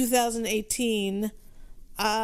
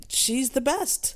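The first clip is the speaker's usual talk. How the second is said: slow mock quote; 3 semitones higher, much slower than usual. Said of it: "Dave blurted out that".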